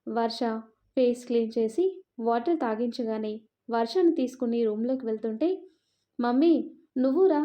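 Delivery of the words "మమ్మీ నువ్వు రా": put-on child calling mommy. A narrator's reading. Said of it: "అని వర్ష పిలుస్తుంటే".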